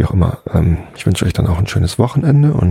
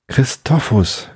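drawn-out higher call of a name from afar; 6 semitones higher, slower than usual. Acted. Simonus rides up on the unicorn, calling Christophus from afar. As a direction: call his name across the meadow, stretched and high. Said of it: "rief Simonus".

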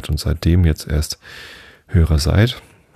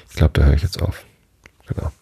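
whispering; faster than usual. Real, not acted. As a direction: whisper it to yourself. Whispered aside after reading.

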